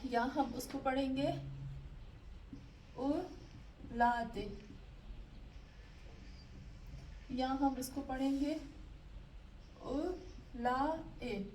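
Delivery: very slow, drawn out reading of each word; slow demo reading. Shown as a demonstration. Teacher slowly models the words for a struggling student. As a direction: stretch every syllable so the student can follow. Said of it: "हम पढ़ेंगे इसको उलू".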